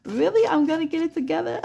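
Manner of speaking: high squeaky what, really; surprised disbelief. Retold or imitated. Client hearing the reading, shocked and delighted. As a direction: jump way up in pitch, amazed. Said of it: "You said".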